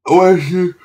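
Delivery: sudden high, loud oh of understanding; light bulb moment, half-yelped; surprised high exclamation; surprised realisation. Real, not acted.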